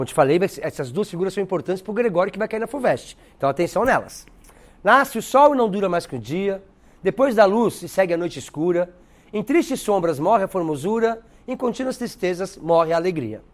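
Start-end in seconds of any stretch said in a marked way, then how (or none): 4.8-13.4 poem recitation. Shown as a demonstration. Teacher reading Gregório de Matos poem aloud in recital voice. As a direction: recite the verses with weight. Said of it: "Então, vê lá".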